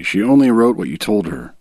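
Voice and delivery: ordinary talk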